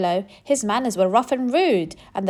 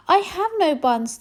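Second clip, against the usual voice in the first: much higher small squirrel voice; timid squirrel; 9 semitones higher than usual. Acted. Squirrel answering the rat, high and nervous.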